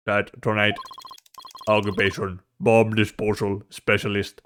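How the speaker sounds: flat, slow synthetic voice; robot voice. Acted. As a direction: speak like a text-to-speech machine. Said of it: "What a strange robotic voice you have".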